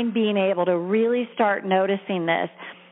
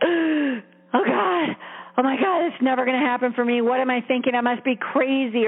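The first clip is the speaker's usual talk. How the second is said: put-on panicked inner child; 2 semitones higher than usual. Coach voicing the terrified inner child, fast gasping panic. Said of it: "that's that child that's, like, terrified".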